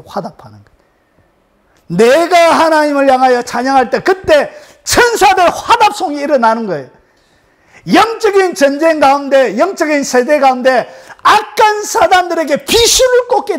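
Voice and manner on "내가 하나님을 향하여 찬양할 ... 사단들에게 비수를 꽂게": raised, driving pulpit declaration; forceful preaching. Real, not acted. Preacher declares praise strikes Satan in battle, forceful proclamation. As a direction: proclaim it high and hard.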